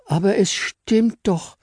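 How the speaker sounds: very high, slow, gentle voice; Fräulein Engel hesitantly offering to fly her up; timid little angel. Acted. Engel answers innocently.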